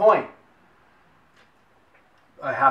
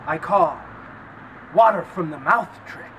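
stage magician voice; 3 semitones higher than usual. Acted. Hammy magician announcement.

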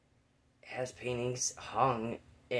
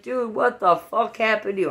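high, loud shocked cry; shocked friend; 10 semitones higher, 12 dB louder than usual. Retold or imitated. Friend seeing me covered in mud, high shocked cry. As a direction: voice a friend stunned at the mess.

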